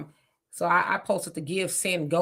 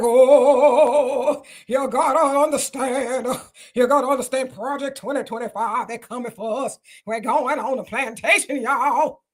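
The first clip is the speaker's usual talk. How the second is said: a hint of a panicked preacher-lawyer, a touch louder at the start; mock alarmed lawyer; 3 semitones higher, 3 dB louder than usual. Host mimics the lawyer's warnings to viewers, lightly alarmed. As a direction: lightly imitate the defiant lawyer warning everyone. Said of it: "That's how he sounded".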